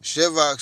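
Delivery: Shevok spelled out slowly, syllable by syllable; sounding out a name. Shown as a demonstration. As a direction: drag out each sound of Shevok. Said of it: "Am I saying it right?".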